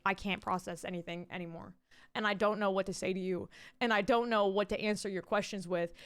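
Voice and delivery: low, subdued inner monologue; mildly drained, socially blanked-out voice; overwhelmed shutdown. Acted. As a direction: lightly act out a brain gone blank.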